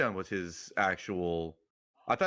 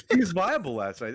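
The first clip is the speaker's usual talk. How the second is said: outdoor voice indoors; 7 semitones higher, 5 dB louder than usual. Real, not acted. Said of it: "Stop yelling at me".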